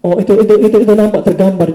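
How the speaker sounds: high, loud burst of dawning understanding; sudden realization. Real, not acted. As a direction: it clicks for him all at once.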